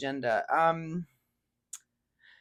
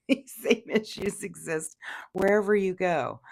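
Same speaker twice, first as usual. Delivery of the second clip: talking through a laugh; amused, laughter in the voice; 3 semitones higher, 4 dB louder than usual. Real, not acted. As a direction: push the words out while still chuckling. Laughs while giving her warning.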